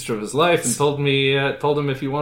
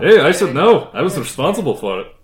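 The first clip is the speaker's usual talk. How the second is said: put-on Transylvanian accent; 5 semitones higher, 6 dB louder than usual. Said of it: "Transylvanian accent".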